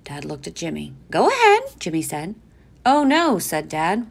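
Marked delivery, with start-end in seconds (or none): 1.1-1.6 put-on high eager boy voice; child voice. A narrator's reading. Jimmy's child voice. 2.9-3.4 high mock dismay; mock alarm. A narrator's reading. Dad playing along.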